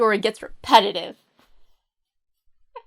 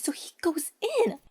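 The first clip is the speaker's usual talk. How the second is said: whispered, sneaking in; 5 semitones higher, 7 dB quieter than usual. A narrator's reading. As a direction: hush it like creeping inside. Creeping into the castle.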